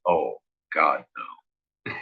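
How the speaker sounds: low, softened retold dread; hushed sinking feeling, lightly acted; quiet dread. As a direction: let it sink out quietly, as a retold reaction. Dreading the officer's demand to see everybody.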